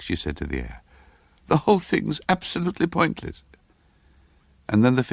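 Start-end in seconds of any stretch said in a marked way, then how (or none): 1.5-3.4 put-on higher, exasperated young girl; exasperated girl's voice. A narrator's reading. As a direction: scoff at the pointless climb. Character exclaims alone on stairs.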